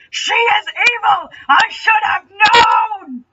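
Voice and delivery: high, slow, loud mock crying; hammed-up wailing sob. Legolas discovering Starsberry is evil, in hammed-up wailing. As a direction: wail it like a melodramatic elf. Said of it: "tears swelled in his eyes".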